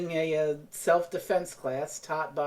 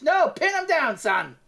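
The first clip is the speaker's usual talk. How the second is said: drill sergeant; 10 semitones higher, slower than usual. Retold or imitated. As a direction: bark it at the boy.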